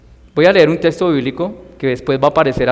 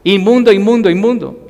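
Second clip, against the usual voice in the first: inmundo called out with less force, fading at the end; milder repeated cry; 5 semitones higher, 3 dB louder than usual. Retold or imitated. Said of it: "Ellos tenían que gritar".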